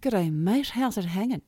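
casual Australian "G'day, mate"; Australian accent. Acted. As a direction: greet a mate in relaxed Australian. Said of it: "a little too enunciated".

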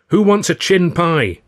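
loud, high, drawn-out playful call. A narrator's reading. Father starts the tickling game, loud singsong call. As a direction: announce it like a game to a child. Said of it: "I would call out".

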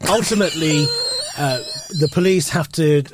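posh politician voice. Acted. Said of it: "Middle England translator".

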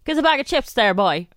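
attempted Cork accent. Shown as a demonstration. Co-host testing her Cork, attempted Cork accent. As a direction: have a go at a Cork lilt. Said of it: "It's not bad".

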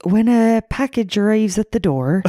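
flat, bored English voice; deadpan like a dull man; monotone. Retold or imitated. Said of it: "he's a lot more monotone".

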